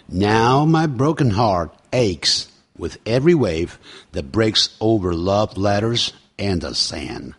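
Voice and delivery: slow, measured English recitation; lyric read-aloud. Shown as a demonstration. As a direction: read the lyrics slowly for learners. Reads lyrics from the start.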